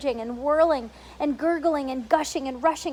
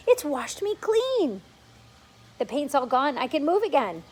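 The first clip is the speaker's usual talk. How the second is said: overjoyed centipede; 2 semitones higher than usual. Acted. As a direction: celebrate being able to move.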